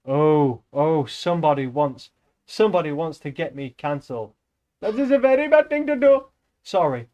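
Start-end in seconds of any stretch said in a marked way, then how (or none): 4.8-6.3 loud, high mock scolding; playful raised-voice telling-off; mock protest. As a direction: protest it much higher and louder. Mock scolding at viewer's dare.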